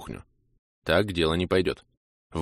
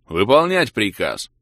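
loud, slow, higher captain's bark; father's growl; 3 semitones higher, 6 dB louder, slower than usual. A narrator's reading. He imitates his father commanding Kira, loud barked order. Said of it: "копируя своего отца".

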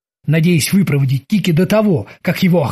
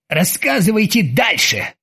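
exhausted voice; 4 semitones higher than usual. Acted. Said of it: "измученным голосом сказал Оззи".

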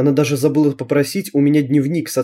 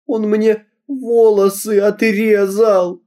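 high, slow, choking on tears, every word chopped out; sobbing, each word stressed; 8 semitones higher, much slower than usual. Acted. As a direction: spell out each word through sobs. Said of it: "захлёбываясь слезами, прочеканила я каждое слово". (высоко, медленно, захлёбываясь слезами, чеканя каждое слово)

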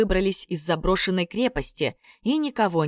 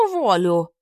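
louder threatening shout; грозный крик; angry threat; 5 dB louder than usual. Acted. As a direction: Yaga echoes, threatening to fire them. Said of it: "вторила Яга".

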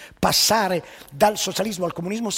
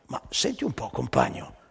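perplexed worker. Acted. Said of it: "domanda al funzionario".

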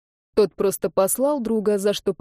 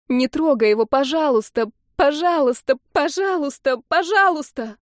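rising, louder begging through tears; crying plea; 6 semitones higher, 3 dB louder than usual. Acted. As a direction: plead harder with every please. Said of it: "По-настоящему заплакала Ольга".

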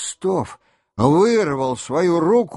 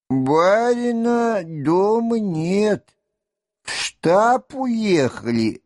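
unhurried orderly, higher and drawn out; slow servant voice; 5 semitones higher, slower than usual. A narrator's reading. Telyanin's orderly telling Rostov the master left. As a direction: answer the visitor slowly, simply.

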